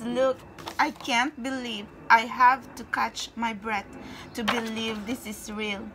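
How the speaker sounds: ordinary talk, nothing marked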